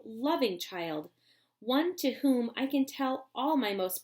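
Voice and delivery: lightly voiced eccentric old chocolate maker, earnest; an old candy maker explaining his plan; Mister Wonka. Wonka explains his plan to Charlie, earnest.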